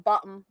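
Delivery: "bottom" with the T swallowed; simplified Cockney. Shown as a demonstration. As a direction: say "bottom" low, dropping the middle T. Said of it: "Taking out letters and words".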